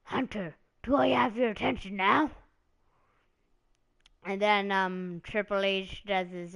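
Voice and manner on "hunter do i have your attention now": mock threat. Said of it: "he's all like".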